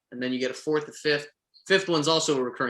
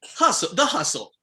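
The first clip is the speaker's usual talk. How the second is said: game promo announcer; 5 semitones higher than usual. Shown as a demonstration. Voice actor reading ad copy for an audition challenge, announcer voice. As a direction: sell it like a hyped-up trailer. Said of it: "do the audition challenge".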